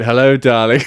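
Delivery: lightly put-on character voice, a bit loud; Darling character. Answering fans who recognised him, light character-accent greeting. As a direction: greet a fan in your sketch character's accent. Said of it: "answered in my darling character".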